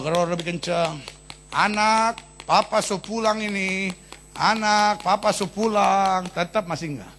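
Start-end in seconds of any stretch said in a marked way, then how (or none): 1.5-6.3 put-on drunk calling out. Drunk father calls his child.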